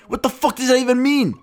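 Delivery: high, baffled what-the-fuck; baffled outburst. Retold or imitated. Comptroller baffled by the kids, high pitched disbelief. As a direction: squeal it in disbelief.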